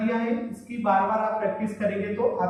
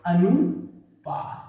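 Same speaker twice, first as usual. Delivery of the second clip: अनुपात stretched slowly, each syllable drawn out; slow dictation of अनुपात; 2 semitones lower, much slower than usual. Shown as a demonstration. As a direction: spell out अनुपात slowly for the class. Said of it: "Hindi में क्या बोला जाता है?".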